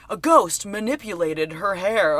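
slow, measured imitation of an investigator; mock-solemn report, spaced out; pseudo-scientific. Investigator explaining the incident on camera, mock scientific. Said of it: "Why would you say it like that".

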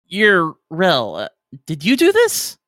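high, accusing question; suspicious crewman. Acted. Crewman confronting Rel over the error, high and accusing. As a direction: catch Rel out, pointedly.

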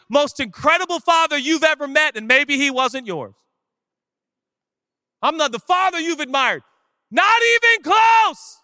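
high, forceful pulpit voice; impassioned preaching. Real, not acted. Preacher challenging his congregation, high and impassioned.

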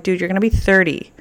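high, pushy excited plea; excited pleading. Retold or imitated. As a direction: talk him into a party, eagerly. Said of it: "I'm like".

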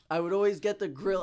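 ordinary talk, nothing marked

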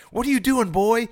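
high, hammed-up barking dad; a ghost father taunting his son, high and hammed up; mock angry father. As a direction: bark it like a mocking bully father.

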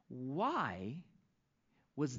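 a hushed, secretive why; whispered question. Shown as a demonstration. Rhetorical question before the answer.

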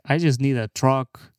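mock Mexican accent, slow and drawn out; Mexican worker. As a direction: play a humble truck buyer with a Mexican accent. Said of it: "those fucking guys are like".

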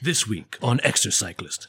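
mock episode intro read; show opening announcer. Pitching the podcast's outro as an episode opener, mock announcer. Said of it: "the little opening thing that they say at the beginning".

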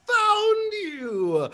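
high, loud, long-drawn cry; very excited elephant person. Acted. Elephant alien finds the one he seeks, wildly excited. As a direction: trumpet the words out in huge excitement. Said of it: "suddenly is very excited and says".

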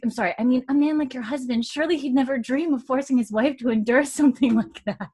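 put-on high, prim girlish voice; prim young lady. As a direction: speak high and proper. Mary's prim voice.

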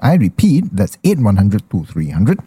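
radio voice. Acted. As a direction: read it like a radio sponsor spot. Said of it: "when you use your radio voice, ah, you go very soft".

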